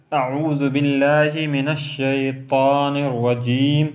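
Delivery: slow, careful recitation. Shown as a demonstration. Teacher demonstrating taawwudh, slow recitation. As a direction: recite it slowly and clearly.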